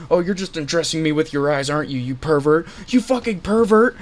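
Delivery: builds to a high shout; mock angry yell. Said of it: "she did the whole".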